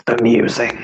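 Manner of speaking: lightly rasped otherworldly voice; rasping figure. Acted. Figure weighs the dead man's wish, lightly rasping. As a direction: rasp the single word. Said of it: "rasping voice that sounds like needles on".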